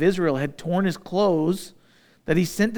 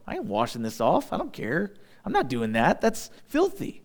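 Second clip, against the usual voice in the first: mock disgusted refusal; 4 dB quieter than usual. Mocked refusal to wash in mud.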